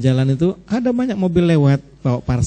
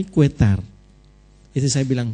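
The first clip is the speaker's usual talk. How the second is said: normal talking voice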